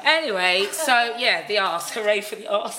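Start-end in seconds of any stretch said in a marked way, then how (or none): 1.9-2.8 cheer. Real, not acted.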